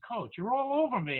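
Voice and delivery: mild mock protest to the coach; player's complaint.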